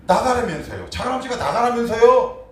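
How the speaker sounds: high, loud sulky retort; sulking nephew blaming his uncle, loud and high; defiant excuse. Retold or imitated. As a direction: throw the words back at the uncle. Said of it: "이유는 어떻게 얘기하는 줄 알아요".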